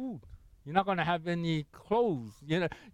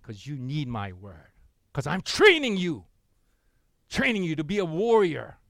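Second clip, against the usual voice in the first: voice of God. Retold or imitated. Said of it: "God still says".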